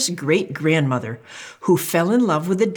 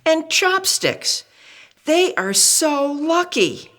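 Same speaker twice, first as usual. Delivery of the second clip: put-on child voice; 11 semitones higher than usual. Spoon listing envied friends.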